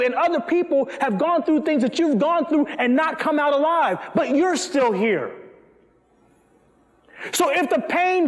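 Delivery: urgent preacher's cadence; impassioned preaching. Real, not acted. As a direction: drive it home to the congregation. Preaches with raised, urgent delivery.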